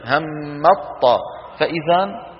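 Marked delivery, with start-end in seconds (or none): 0.1-1.2 همط طاء said very slowly, the ت turned into ط; slow demo. Shown as a demonstration. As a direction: draw out همط طاء to show the change. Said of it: "انتبهنا كيف؟". (نطق بطيء لـ همط طاء)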